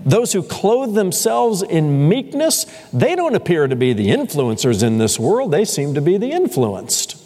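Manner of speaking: a hint of a skeptical listener; puzzled disbelief. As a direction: play the doubter, pushing back. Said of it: "scratching your head and saying".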